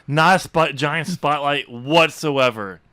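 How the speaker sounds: slow, deadpan sarcasm; sarcastic. Real, not acted. Mocking the game's obvious foreshadowing, deadpan. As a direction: drag it out sarcastically. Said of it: "sarcastic slow emphasis".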